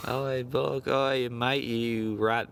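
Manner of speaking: garbled, made-up Australian banter; mock Australian accent. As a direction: ramble in a badly faked Australian accent. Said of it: "Australian accents in here".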